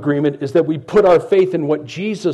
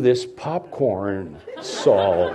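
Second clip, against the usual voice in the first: laughing; 5 semitones lower, much slower than usual. Real, not acted. Joking excuse, laughing.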